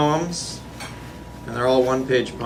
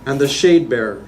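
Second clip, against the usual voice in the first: incantatory list-like poem recital; poetry reading; 2 semitones higher than usual. Acted. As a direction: declaim each phrase evenly, firmly projected. Reads own poem aloud.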